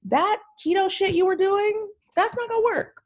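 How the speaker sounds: high, frank telling-off; blunt advice. Retold or imitated. Telling a friend her keto diet fails, mock blunt. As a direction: give it to them straight, mock stern. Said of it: "you're just like".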